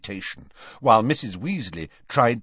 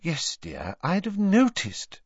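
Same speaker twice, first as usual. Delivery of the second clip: patient; 10 semitones higher than usual. Acted. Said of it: "said Mrs. Weasley patiently".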